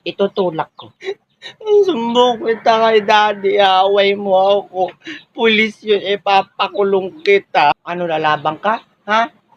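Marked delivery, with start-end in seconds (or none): 1.9-7.7 put-on slow, drawn-out childish whine; tattling child whine. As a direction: whine it out as a threat to tell. Child threatens to tattle to Daddy. (nagsusumbong na parang bata)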